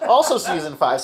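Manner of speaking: saying it through real laughter; laughing. Real, not acted. Friend laughs at the favorite episode pick while speaking.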